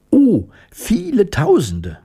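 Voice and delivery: high mouse exclamation; mouse queen. A narrator's reading. Mouse queen boasting of her many subjects, high voice. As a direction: pipe the answer out high.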